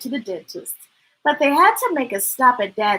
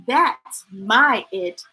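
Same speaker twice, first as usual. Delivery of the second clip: smiling; slower than usual. Acted. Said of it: "said Dad with a smile".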